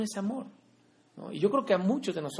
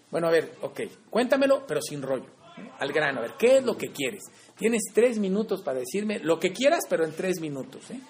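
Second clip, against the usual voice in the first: impatient brush-off; 4 dB louder than usual. Retold or imitated. Man brushing off his family.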